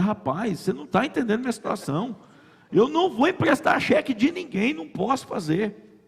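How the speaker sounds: high-pitched exasperated protest; acted-out indignant objection; retold firm refusal. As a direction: refuse emphatically, pitch climbing. Acts out refusing the mechanic's request.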